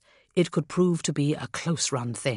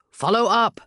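high, loud barked command; gruff barked parade orders; 7 semitones higher, 6 dB louder than usual. Acted. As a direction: bark it at the troops. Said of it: "I ordered".

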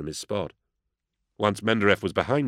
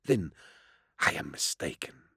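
understated friendliness; amiable; 2 semitones lower, 7 dB quieter than usual. A narrator's reading. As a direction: concede it mildly and quietly. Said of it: "said Mendereff amiably".

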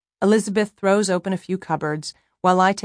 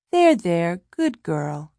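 murmuring; slower than usual. A narrator's reading. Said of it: "I murmur".

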